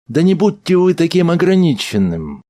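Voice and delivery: high, sharp elf rebuke; harsh. Acted. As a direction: snap at him, high and hard. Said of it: "сказал эльф жёстко".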